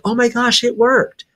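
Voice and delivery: a thrilled grandma who got her way; happy grandma. Retold or imitated. Medium telling the host, grandma overjoyed and squealing high. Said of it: "so happy".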